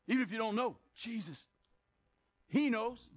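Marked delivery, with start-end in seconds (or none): 0.9-1.5 hushed call to Jesus; small, quiet plea; soft cry out. Shown as a demonstration. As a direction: breathe out the name quietly.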